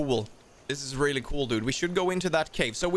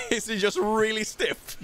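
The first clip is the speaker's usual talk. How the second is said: slow, higher words through laughter; laughing; 6 semitones higher than usual. Real, not acted. Player joking with partner about a caiman, laughing. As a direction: barely hold in the giggles.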